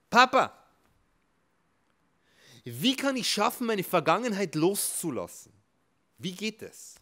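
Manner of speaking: put-on high, loud little boy pleading; child's voice. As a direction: ask like a small boy begging his father.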